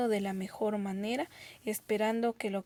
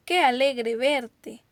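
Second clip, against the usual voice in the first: más fuerte, despacio y expresivo; exclamación alegre; 6 dB louder, slower than usual. Shown as a demonstration. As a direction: muestra alegría de reencuentro. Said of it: "expresan nuestro, nuestras emociones". (exclamación alegre, pausada)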